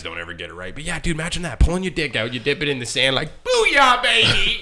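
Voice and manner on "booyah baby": high, loud triumphant whoop; excited whoop. Retold or imitated. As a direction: cheer it like a frat boy. Mock triumphant cry in story.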